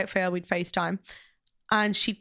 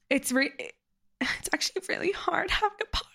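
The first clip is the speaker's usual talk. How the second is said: mock whine; 7 semitones higher than usual. Mock self-pity about podcasting.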